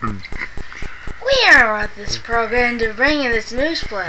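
slow, deep announcer read; old radio announcer. Pretend. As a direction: drawl it like a radio newsman. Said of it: "say what you were saying a minute ago".

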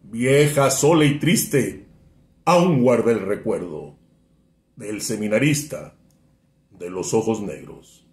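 measured poem recitation with swelling and falling lines; poetry declamation. Acted. Friend reciting a poem on request, declamatory. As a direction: recite in a rolling cadence, pausing after each verse. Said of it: "hacer una declamación".

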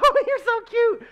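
high, slow, giggling as the swooning wife; wife imitated, gushing and giggling; giggly adoring wife. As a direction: laugh through it like a smitten wife. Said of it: "Half the time she's like".

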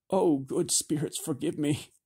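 shaken woman, pleading; a horrified plea. Acted. Jebra horrified.

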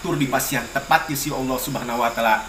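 even, measured prayer recitation; prayer for the deceased. Real, not acted. Elder praying aloud for a departed dalang, steady prayer recitation. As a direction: recite a steady, low-key blessing.

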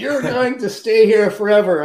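put-on owner's Italian accent. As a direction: mimic the Italian owner with enthusiasm. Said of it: "And he goes".

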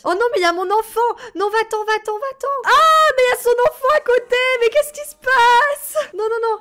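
high, loud panicked yelling; frantic high shouts of alarm; panicked shouting. Real, not acted. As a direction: shriek at them to get away. Panic, child next to them.

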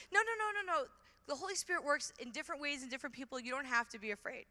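imitating a reassuring friend; retold reassurance. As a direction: soothe a nervous friend, quickly. Friend reassures her in retold dialogue.

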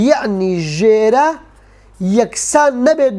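یەعنی ژێرە drawn out slowly, each word stretched; slow emphasis. Shown as a demonstration.

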